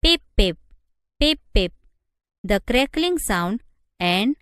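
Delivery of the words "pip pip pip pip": short, louder spoken electronic pips; caution-signal pips made by mouth; imitated warning beeps. A narrator's reading. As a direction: voice the alarm in sharp paired beeps. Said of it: "jamming of caution signals".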